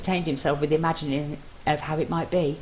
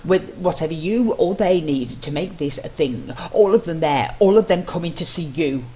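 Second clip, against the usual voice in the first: building eagerness; 3 dB louder than usual. Acted. Mello pleading eagerly.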